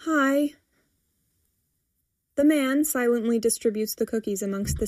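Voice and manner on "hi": small, higher-pitched greeting; timid squeak. A narrator's reading. Girl peeking out at her mother, squeaking slightly. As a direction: squeak the word a little. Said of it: "squeaks the girl".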